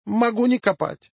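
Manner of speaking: put-on high Yiddish-accented Russian, sing-song. Job applicant answers interviewer.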